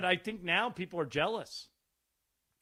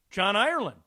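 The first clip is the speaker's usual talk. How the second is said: louder, higher shout of recognition; retold excited greeting; 4 semitones higher, 7 dB louder than usual. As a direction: call out the name like a delighted fan. Retold delighted recognition by star.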